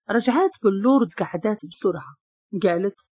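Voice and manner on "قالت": ordinary delivery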